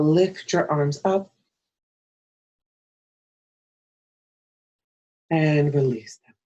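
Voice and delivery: calm, measured yoga-teacher cueing; guided breathing practice. Acted. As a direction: lead each breath and movement, leaving long pauses. Leads breath and gentle stretch.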